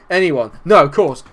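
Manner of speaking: ordinary talk, nothing marked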